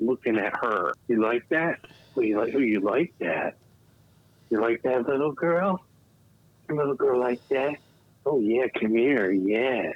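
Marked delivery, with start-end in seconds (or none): 1.1-9.9 mock, creepy, seductive tone. Performing a come-on line while looking at her: put-on creepy seductive talk. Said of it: "She's gonna be so fucking creeped out by this".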